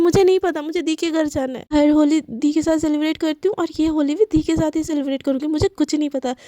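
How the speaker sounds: put-on defiant teen snapping back at her mother; stubborn defiance. Daughter defies mother.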